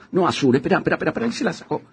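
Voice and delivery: high, tense hushed alarm; a nervous actor watching a man in a cap; panicked. Acted. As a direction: stammer the warning, nervous. Panicking about approaching police.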